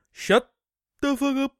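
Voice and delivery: loud, high "shut the fuck up"; mock shout. Answering listeners who complain, mock loud. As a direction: snap it back at the critics. Telling off imagined critics.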